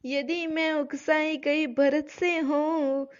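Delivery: slow, measured verse recital; poem recitation. Acted. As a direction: chant each line slowly like a poem. (धीमा काव्य पाठ)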